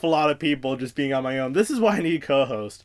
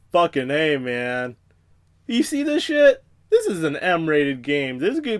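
excited ratings board; 2 semitones higher, 4 dB louder than usual. Retold or imitated. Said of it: "the E S R B is like".

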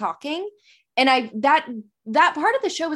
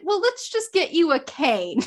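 imitating a Brit, higher; British accent; 4 semitones higher than usual. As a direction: suggest it in a put-on British accent. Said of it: "my British accent is crap now".

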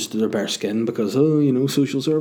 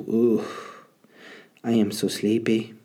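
mock Mexican accent. Comedian after a podcast slips into a sleepy mock Mexican accent. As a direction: yawn it out in a cartoonish Mexican accent. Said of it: "And that's racist, that I did that voice".

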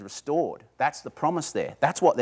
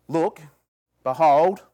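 louder, insistent Look, behold; urgent call; 3 semitones higher, 5 dB louder, slower than usual. Retold or imitated. Elder urging sobbing John to look up, insistent. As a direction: call him to lift his head.

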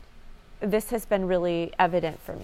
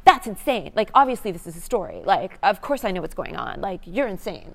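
louder, scoffing dismissal; scornful inner critic; 6 dB louder than usual. Retold or imitated. Her perfectionist side scoffing at herself, a mock scornful tone. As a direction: sneer at the very idea, then fade. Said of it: "the control part of me was always like".

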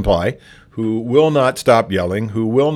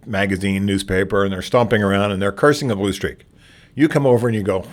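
usual speaking voice

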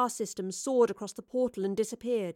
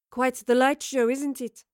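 taunting intruder; 3 semitones higher, 4 dB louder than usual. A narrator's reading. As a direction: needle them with a casual question. Intruder startles the women with taunt.

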